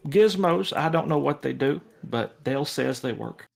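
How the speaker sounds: high-pitched jock showing a newcomer around; eager, welcoming club-mate voice; friendly jock buddy. Acted. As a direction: start way up high, then settle down. Plays the jock buddy Dingo.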